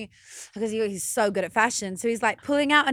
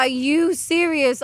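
slow, louder retold incredulity; retold disbelief; 5 semitones higher, 5 dB louder, much slower than usual. Woman retells her reaction to his late reply, disbelief. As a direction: stretch it out in mock disbelief.

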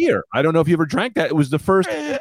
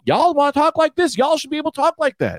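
Southern accent; 5 semitones higher than usual. Shown as a demonstration. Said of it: "I wanna have a Southern accent".

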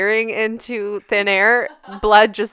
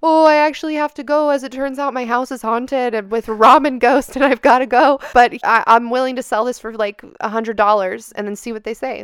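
pitch to a stranger; 3 semitones higher, 4 dB louder than usual. Retold or imitated. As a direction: sell it like a pushy hustler. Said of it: "approach someone new walking in and say".

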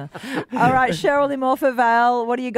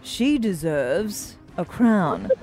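newsreader voice; slower than usual. Acted. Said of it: "we read out songs in a newsreader voice".

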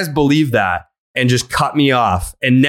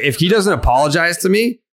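retold threat, pitched higher and rising; indignant ultimatum; 7 semitones higher than usual. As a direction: lay down an angry condition, voice climbing. Retold on-air threat to player.

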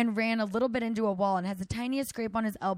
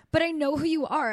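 high, louder whiny mimic; mock crying; 6 semitones higher, 4 dB louder than usual. Friend mimicking the scooter rider who recognized her, mock-crying. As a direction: imitate him whining tearfully.

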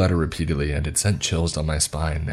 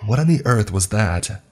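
higher, louder frightened cry while fleeing; a mildly acted panicked question; terrified; 5 semitones higher, 4 dB louder than usual. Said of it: "she asked, terrified".

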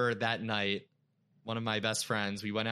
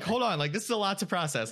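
parents slowing down; 9 semitones higher, 3 dB louder than usual. Retold or imitated. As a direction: play the overwhelmed parents, half laughing. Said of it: "And they're like".

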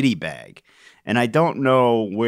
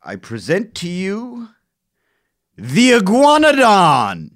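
grand scientific presenter; 8 semitones higher, 4 dB louder than usual. Acted. Scientist presenting a find to colleagues, grand announcer voice. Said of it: "this is how that went down".

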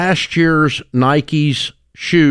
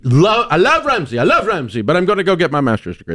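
put-on a light Slavic accent, higher at the start; Slavic accent imitation; 5 semitones higher, faster than usual. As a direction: do Milan's Slavic-tinged English, not quite landing it. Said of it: "That's my best, my best imitation".

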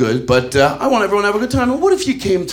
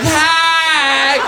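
mock shout; 9 semitones higher than usual. Comic acting out a bedroom standoff, mock shouted call. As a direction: bark it out like a startled call. Shouted exchange during sex bit.

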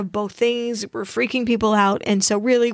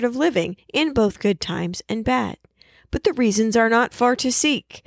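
speech read. Acted. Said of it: "not with her accent".

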